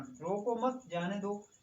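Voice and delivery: रोको मत grouped together, then जाने दो; pause after मत. Shown as a demonstration. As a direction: join रोको to मत, leaving जाने दो separate. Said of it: "इसका अर्थ है किसी को आप रोकिए मत". ("रोको मत" साथ में, फिर "जाने दो" अलग, धीमी गति से)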